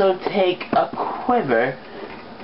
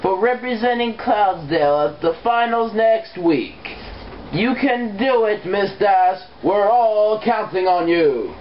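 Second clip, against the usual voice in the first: announcer voice. Acted. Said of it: "That entire sentence was supposed to be the announcer".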